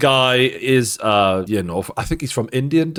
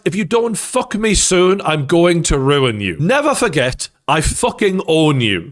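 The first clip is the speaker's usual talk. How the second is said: 1 mock menacing threat; 2 semitones higher, slower than usual. Boss threatens employee, acted.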